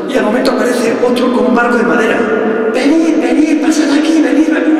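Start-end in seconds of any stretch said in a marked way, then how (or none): 2.7-4.8 high, loud beckoning calls; calling out. Acted. Man in a wooden boat calling swimmers over, high and loud. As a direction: wave them in with your voice, high and loud.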